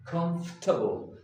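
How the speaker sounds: comfortable said as "cumf-tuh-bl", three syllables; comfortable with the middle squeezed out, "KUMF-tuh-bul"; correct British way. Shown as a demonstration. Teacher models the correct comfortable. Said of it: "Repeat after me".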